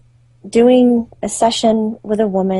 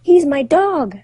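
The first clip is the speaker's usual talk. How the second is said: higher-pitched mock crying; imitated tearful cry; 7 semitones higher, slower than usual. Client telling medium about her dog, imitated tearful cry. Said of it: "She's crying".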